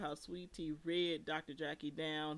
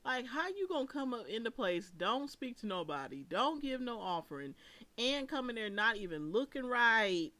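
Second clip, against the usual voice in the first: higher and louder, building indignation; rising rant; 5 semitones higher, 5 dB louder than usual. Real, not acted. Host scolding the guest at the funeral, rising higher and louder. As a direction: build the complaint as it goes.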